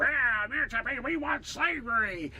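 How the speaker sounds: jeering crowd. Retold or imitated. Crowd demanding slavery at the speech, mock jeering. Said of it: "like, crowd go".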